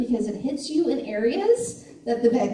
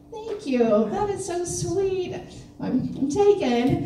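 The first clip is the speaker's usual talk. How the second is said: higher, coy flattered thanks; mock flattered; 7 semitones higher, slower than usual. Woman answering a stranger's compliment from her car, mock flattered. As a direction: play touched and modestly turning down an admirer.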